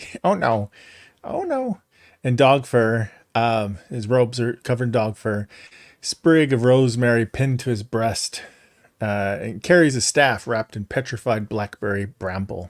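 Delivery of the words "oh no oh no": thin, worried, fretful, high gnome voice. Describing a worried gnome character and speaking as him, in a thin, worried gnome voice. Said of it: "he speaks in this kind of thin voice".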